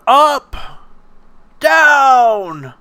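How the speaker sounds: high, loud calls of up and down from the background; Miyagi calling out. Retold or imitated. Miyagi calling out instructions to Daniel while he paints. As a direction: sing out each word from across the yard. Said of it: "every now and then going".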